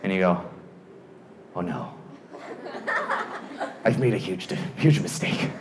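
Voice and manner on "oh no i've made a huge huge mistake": low, hushed mock dread; sinking regret. Rider as the latch bar closes, low hushed regret. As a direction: let the awful realisation sink in quietly.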